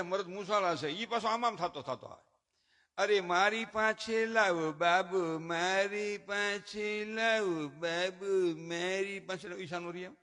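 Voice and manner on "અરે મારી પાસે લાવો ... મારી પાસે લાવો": very slow sing-song coaxing; doting father. Retold or imitated. Father asks for the crying baby, slow sing-song. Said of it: "તા તો ઈ છોકરાનો બાપ".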